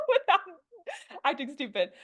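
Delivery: talking with numb lips; numb from the dentist. Real, not acted. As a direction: speak through numb, stiff lips. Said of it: "my lips are numb".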